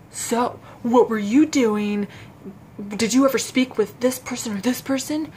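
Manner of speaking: intimidating interrogator. Retold or imitated. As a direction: imitate an interrogator leaning on a suspect. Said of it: "they're very intimidating".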